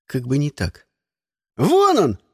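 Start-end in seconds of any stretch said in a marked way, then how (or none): 1.6-2.2 put-on high, loud children's shout; kids yelling. A narrator's reading. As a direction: yell and point him out. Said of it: "заорали высыпавшие на крыльцо школьники".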